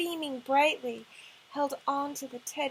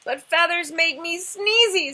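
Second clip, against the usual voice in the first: sigh; 5 semitones higher, 11 dB louder than usual. Acted. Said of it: "said the dragon with a sigh".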